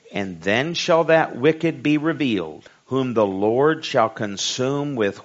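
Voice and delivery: slow, emphatic sermon reading; preacher's measured, ringing scripture delivery. A narrator's reading. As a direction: read the verse out strongly, leaning on key words.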